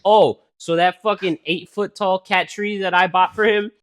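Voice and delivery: mock indignant. Retorting to Sophia.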